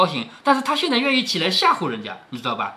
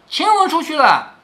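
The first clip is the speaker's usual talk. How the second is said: higher, raised call across the room; calling out loud; 8 semitones higher, 3 dB louder than usual. A narrator's reading. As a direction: call out the warning, lightly raised. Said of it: "只听宝玉高声的喊说". (提高嗓门喊出来)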